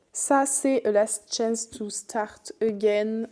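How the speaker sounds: English title read slowly in a thick French accent; slow, deliberate English title with a strong French accent. Real, not acted. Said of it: "mon accent, il est mais français à souhait".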